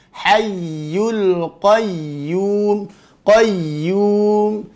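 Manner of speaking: very slow chant, doubled Y held in HAYYUL QAYYUM; pressed, flowing ya. Shown as a demonstration. Teacher giving verse example, slow recitation with pressed ya. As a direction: lean into the YY of QAYYUM and carry it on. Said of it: "Tekan dulu".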